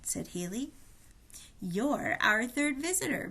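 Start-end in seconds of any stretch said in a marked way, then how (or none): 1.6-3.3 slow, jolly announcer, booming mildly. Acted. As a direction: announce it like a cheerful game-show host. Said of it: "boomed the jolly announcer".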